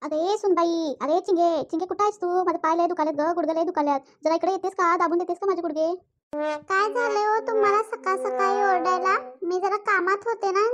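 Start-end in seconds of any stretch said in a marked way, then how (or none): 0.0-5.9 put-on old mother-in-law calls out to her daughter-in-law.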